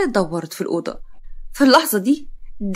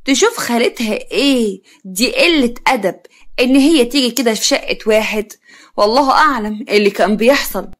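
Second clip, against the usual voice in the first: angry scolding; 4 dB louder than usual. Acted. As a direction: scold in outrage, raising the voice a little. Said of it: "عزة بغضب وزعيق".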